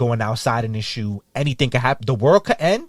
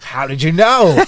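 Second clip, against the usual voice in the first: higher, louder, slow fake amazement; mock surprise; 6 semitones higher, 8 dB louder, slower than usual. Answering strangers on vacation, mock surprised. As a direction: play it like a naive tourist. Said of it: "I'd be like".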